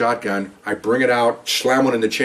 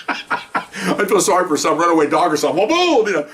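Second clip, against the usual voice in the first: laughing; 7 semitones higher than usual. Real, not acted. Laughing at his own joke.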